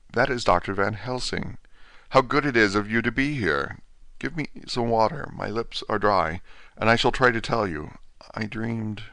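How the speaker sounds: lightly voiced feeble patient, dazed; a hint of a broken man just waking from a dream; faint, bewildered invalid, lightly voiced; weak dying Renfield. Renfield recognises Van Helsing.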